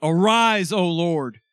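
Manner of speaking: loud, emphatic summons; loud, exasperated appeal to heaven; fed-up cry to God. Acted. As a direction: call out forcefully, at the end of patience. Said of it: "He's had enough".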